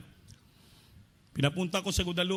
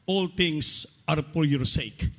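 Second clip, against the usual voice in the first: slow, solemn voice of the Lord; slow voice of God; 3 semitones lower, much slower than usual. Retold or imitated. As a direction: let each word fall slowly like God answering. God's answer read from Bible. (mabagal at solemne na tinig ng Diyos)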